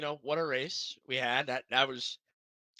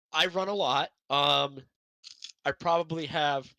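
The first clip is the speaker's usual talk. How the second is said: talking through popcorn; words round a mouthful of popcorn; mouth full; 2 semitones higher, 6 dB louder than usual. Real, not acted. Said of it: "I have popcorn in my mouth".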